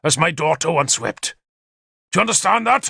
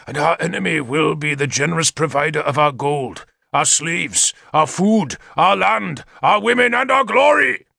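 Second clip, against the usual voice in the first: high, rallying war oratory; shouted speech; 8 semitones higher than usual. A narrator's reading. King rousing his hall against the enemy, shouted rally. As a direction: declaim it to the crowd, swelling in waves. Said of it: "Gorfethid shouted".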